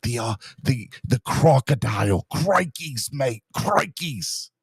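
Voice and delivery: put-on Australian accent. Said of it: "that's the best you're gonna get out of me".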